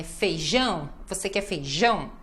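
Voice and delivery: "feijão" with JÃO lengthened; final stress. Shown as a demonstration. Teacher showing stress in a question, long JÃO in "feijão". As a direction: lean on the JÃO of "feijão", then fall. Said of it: "ênfase no final".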